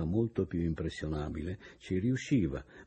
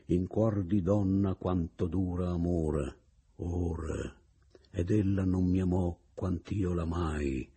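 poem recital; slower than usual. Acted. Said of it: "si fece ripetere questa sua eco".

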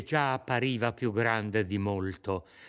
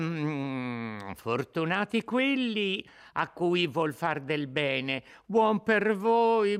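put-on coaxing old woman; 3 semitones higher than usual.

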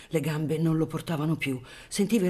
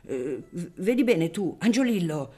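put-on a father hushing his kids, raised voice; scolding father; 4 semitones higher, 5 dB louder than usual. Father scolding his boys in the crowd, a touch louder. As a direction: scold the children while holding back hope. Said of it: "sgridando i figliuoli".

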